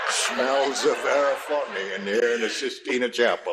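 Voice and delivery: "Smells a very funny" in a hammed-up Italian accent, "Sistina" said Italian style; the game clue played as Michelangelo in a comic accent; mock Italian accent. Host reads the clue as Michelangelo in Italian accent. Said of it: "with your Jewish accent".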